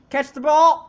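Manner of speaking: high, loud yell at the game; real excited command; urgent shout. Real, not acted. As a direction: holler it at the receiver. Yelling at player on screen.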